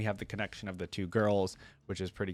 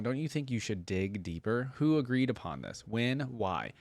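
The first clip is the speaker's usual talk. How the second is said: lightly voiced thoughtful scholar, calm critique; Diana's note read; 2 semitones higher than usual. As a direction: read it like a patient, clever friend giving feedback. Reading Diana's reply.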